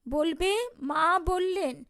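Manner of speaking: মা said slow and weighty; stress on মা. Retold or imitated. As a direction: lean hard on মা, slowing down. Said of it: "মা শব্দটি জোর দিয়া উচ্চারণ করিলেন".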